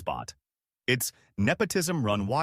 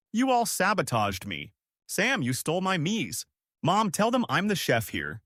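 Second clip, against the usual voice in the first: higher-pitched, narrated outburst without shouting; indignant tantrum; 7 semitones higher than usual. A narrator's reading. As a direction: accuse them all in a raised pitch. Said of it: "he screams".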